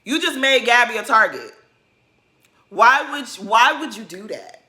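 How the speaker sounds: "Shut the hell up" yelled high and loud; retold screaming. Vlogger yelling at Robin on the TV screen, loud and high. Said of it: "when I tell you I was screaming".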